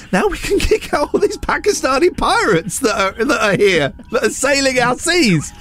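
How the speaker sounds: high mocking voice of a dim racist; mocking racist tweet. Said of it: "One tweet that said".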